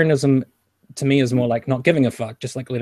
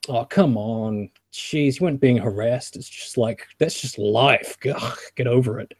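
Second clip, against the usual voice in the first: slow, drawn-out exasperated brush-off; mock dismissive. Sceptic answering a harassed woman, mock dismissive. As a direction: imitate someone wearily waving off a complaint.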